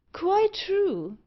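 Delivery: a sudden high agreeing pop; eager reply. Acted. Loftus agreeing absent-mindedly, pitched high. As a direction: chirp it out eagerly. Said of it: "replied Loftus".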